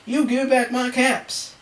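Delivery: scolding. A narrator's reading. Peddler shaking a finger at monkeys, drawn-out scolding. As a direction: draw out the demand, mock stern. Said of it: "shaking a finger at them".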